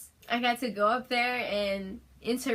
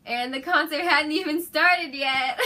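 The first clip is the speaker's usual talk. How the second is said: choked up; 5 semitones higher, 7 dB louder than usual. Real, not acted. Overwhelmed with emotion.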